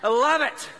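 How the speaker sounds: high, gushing "best friends"; delighted reply. Retold or imitated. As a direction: gush like a new fan friend. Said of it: "I was like".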